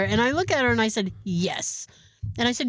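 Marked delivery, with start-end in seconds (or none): 1.2-1.9 low, quiet, withering answer; disdainful. Retold or imitated. Patient answering dentist about the broken tooth, disdainful. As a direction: drop it low with open disdain. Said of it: "as much disdain as I can fucking muster".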